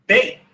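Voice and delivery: "Beit" said with a b, rhyming with "late"; Hebrew pronunciation. Shown as a demonstration. Teacher corrects the letter sound for the class, clear b. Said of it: "Now it's pronounced".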